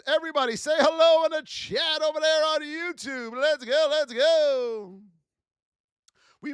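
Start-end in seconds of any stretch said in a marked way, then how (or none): 0.1-5.0 high, lively call-out; hyped call to chat. Real, not acted. Streamer calling the YouTube chat, high and lively. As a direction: get the chat fired up.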